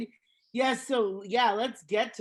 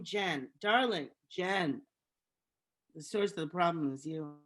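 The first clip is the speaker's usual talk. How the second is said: condescending darling; mock tender scolding; 4 semitones lower, 4 dB quieter than usual. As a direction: talk down to her gently. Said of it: "addressing Jen mockingly".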